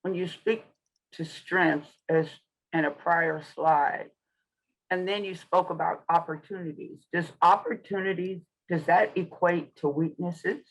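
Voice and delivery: talking around gauze in the mouth; words muffled by a mouthful of gauze. Real, not acted. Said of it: "I have gauze in my mouth".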